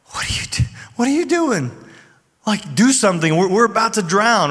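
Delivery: high-pitched imitation of panicked disciples; retold panic. Disciples waking Jesus in the storm, mock panic. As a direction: plead urgently, as if about to go under. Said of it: "they're panicking and they're like".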